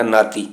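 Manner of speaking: ਨਾਤੀ straight, n directly into long aa; no h sound. Shown as a demonstration. Teacher showing the word for grandsons, no h sound. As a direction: keep any h out of ਨਾਤੀ. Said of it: "ਇੱਥੇ ਹਾਹੇ ਦਾ ਉਚਾਰਨ ਨਹੀਂ ਹੋਵੇਗਾ".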